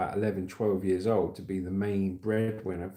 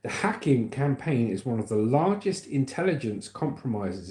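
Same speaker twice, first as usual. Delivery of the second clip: news read. Real, not acted. Reads news story aloud.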